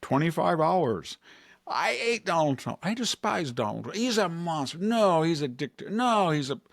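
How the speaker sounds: lightly voiced ranting senator; mock Cory Booker. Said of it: "we can have Cory Booker".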